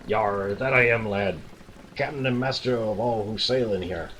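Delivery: pirate voice. Acted. Player voicing the ship captain for the boy, lightly pirate. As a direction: lean into a salty sea captain's growl. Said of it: "I gotta try to do a pirate voice here".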